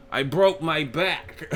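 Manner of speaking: slow, high-pitched boxer impression; hammed-up slow declaration; Mike Tyson. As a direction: stretch it out in a high mock champ voice. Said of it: "Mike would just say outlandish shit".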